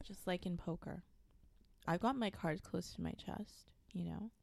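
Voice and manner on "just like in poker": whispered aside. Acted. Whispered poker-face aside.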